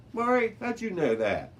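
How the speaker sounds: high, loud, astonished question; can't believe she knew it; amazed. Acted. Deb to Mari, high and astonished.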